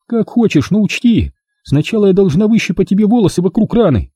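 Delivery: high, matter-of-fact warning; Milka, warning. A narrator's reading. Milka warning him about plucking his hair, high. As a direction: tell him what's coming.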